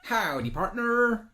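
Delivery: high, drawn-out hammed cowboy howdy; repetitive cowboy greeting. Welcoming each new follower, hammed-up cowboy drawl. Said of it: "very repetitive and very irritating".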